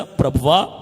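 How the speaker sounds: anguished lament, building to a high shout; fervent, acted cry of repentance; demonstrated crying prayer. Shown as a demonstration. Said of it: "అది ఏడు".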